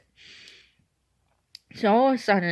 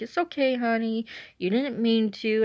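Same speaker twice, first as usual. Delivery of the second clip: higher, lightly acted soothing voice; nice, reassuring dispatcher; 4 semitones higher than usual. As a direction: gently reassure an upset caller. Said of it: "he was very nice".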